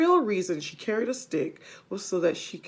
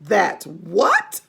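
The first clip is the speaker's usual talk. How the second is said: mock scream; 2 semitones lower, 3 dB louder than usual. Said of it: "screamed Missus Twit".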